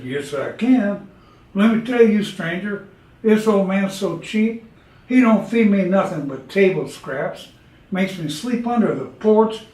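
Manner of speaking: a put-upon farm dog griping to the stranger; talking dog. Acted.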